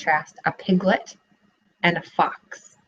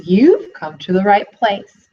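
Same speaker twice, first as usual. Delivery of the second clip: gloating; 5 dB louder, slower than usual. Acted. Fox gloating over caught piglet.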